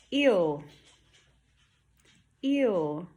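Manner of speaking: "Ew" for ear, R turned into a rounded vowel; "Ew", gliding from ee to oo; missing R. Shown as a demonstration. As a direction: say ear as "Ew", no R at all. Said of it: "There's no R in there".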